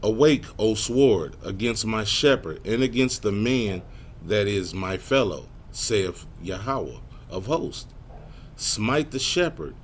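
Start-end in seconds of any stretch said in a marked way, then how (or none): 0.0-7.8 slow, forceful opening, measured verse reading; scripture reading. Real, not acted. Preacher reading Zechariah to the congregation, measured and emphatic. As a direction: proclaim the verse with weight.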